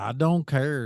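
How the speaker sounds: lightly imitated Southern accent; a hint of Southern twang; Southern country guy. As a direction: mimic a country dude from the South. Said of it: "the country guy, the Southern dude".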